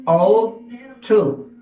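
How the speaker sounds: "Ought to" said as ot-tu, no g or h sound; pronunciation drill. Shown as a demonstration. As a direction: model "Ought to" clearly for repetition. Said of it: "aquí no pronunciamos esas tres letras".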